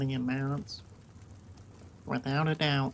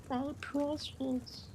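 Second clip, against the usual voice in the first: much higher, slow, soft creepy croon; Gollum voice; 12 semitones higher, 7 dB quieter, much slower than usual. Pretend. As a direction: stretch it out like an obsessed golem. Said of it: "That little golem thing's creepy".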